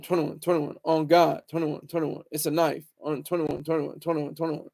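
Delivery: low, murmured rapper ad lib chant; imitating the ad lib. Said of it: "that goddamn ad lib".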